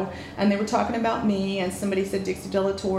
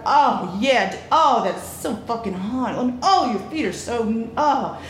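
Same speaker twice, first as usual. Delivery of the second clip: louder hammed-up gasps of encouragement; mock cheerleader; 3 dB louder than usual. Cheering on the couple having sex, hammed-up and louder. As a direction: cheer the couple on, over the top. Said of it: "I just was cheerleader going".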